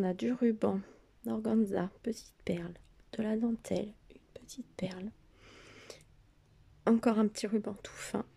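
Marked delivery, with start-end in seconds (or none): 2.0-8.2 holding back hiccups while whispering. Real, not acted. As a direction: speak through suppressed hiccups. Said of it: "Pardon, j'ai le hoquet".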